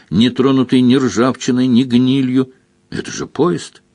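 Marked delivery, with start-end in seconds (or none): 2.9-3.8 raised pitch, lightly voiced exclamation; a restrained, higher-pitched cry of recognition; understated exclamation; exclaimed. A narrator's reading. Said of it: "воскликнула Мара".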